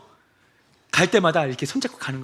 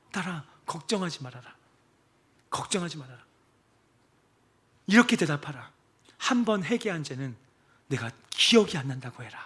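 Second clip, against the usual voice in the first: gentle divine voice. Retold or imitated. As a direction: comfort her like a loving father. Voice of Jesus within her.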